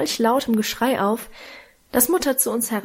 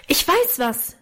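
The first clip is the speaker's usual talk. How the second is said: a sudden, raised call of discovery; girl blurting out her idea to her siblings, raised voice; loud exclamation; 5 semitones higher than usual. Acted. Blurt out the idea a little louder. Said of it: "rief sie so laut".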